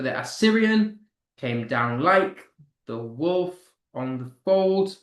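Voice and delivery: "the Assyrian came down like the wolf on the fold" broken into measured units; scanned in threes. Shown as a demonstration. Teacher counting three-syllable units, measured chunks with pauses. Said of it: "there's three syllables per unit".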